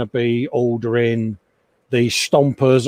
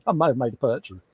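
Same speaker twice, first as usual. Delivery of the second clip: quicker, softer, through a guilty laugh; sheepish laughing admission; 6 dB quieter, faster than usual. Real, not acted. Confessing a Warhammer buy to chat, sheepish laughing. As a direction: squirm as you own up to it. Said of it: "notice how I'm beginning to squirm".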